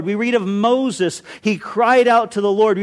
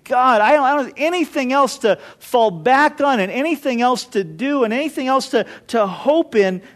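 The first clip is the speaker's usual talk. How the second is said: desperate prayer; 3 semitones higher than usual. Retold or imitated. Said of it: "where I'm just saying".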